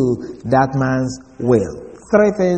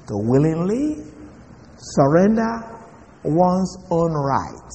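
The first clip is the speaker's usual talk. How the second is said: softer, slower restatement stressing "willingly"; soft slow repeat; 6 dB quieter, slower than usual. Shown as a demonstration. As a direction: drop the level and lean gently on "willingly", ending very slowly on "one's own right". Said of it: "let me repeat that".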